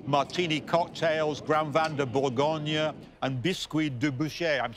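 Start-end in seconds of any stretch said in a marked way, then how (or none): 1.4-4.6 French menu names in an amateur French accent; attempted French accent. Real, not acted. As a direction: read the French dishes with an imperfect French accent. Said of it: "sorry about my French accent".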